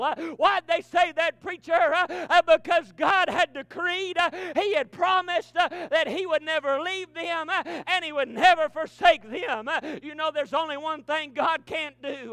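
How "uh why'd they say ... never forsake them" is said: loud, rhythmic whooping cadence with a gasped uh; preaching at full force. Acted. Preacher to congregation, rousing loud sermon. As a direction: drive the congregation up.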